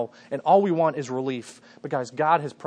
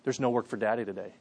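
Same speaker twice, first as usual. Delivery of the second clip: whisper; 6 semitones lower, 8 dB quieter, faster than usual. Retold or imitated. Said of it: "and I whisper to him".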